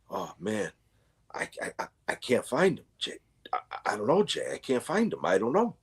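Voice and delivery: hushed, stuttering apology, partly whispered; flustered stammer. Retold or imitated. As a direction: imitate a helpless clerk fumbling for words. Flustered employee can't find the books.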